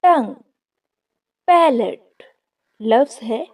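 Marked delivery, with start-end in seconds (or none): 0.0-0.3 टंग said carefully as one syllable, "tung"; careful pronunciation. Shown as a demonstration. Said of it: "इस लफ्ज को भी अच्छे से प्रोनाउंस करना है". 1.5-2.2 पैलेट said carefully as two syllables, "PAL-et"; careful pronunciation. Shown as a demonstration. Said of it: "लफ्ज को पैलेट बोलना है".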